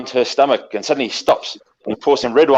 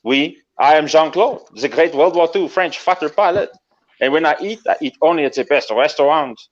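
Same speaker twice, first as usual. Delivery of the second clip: French fighter pilot. Acted. Pilot boasting to an admirer, lightly French and self-important. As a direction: announce yourself with a mild French accent. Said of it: "And he goes".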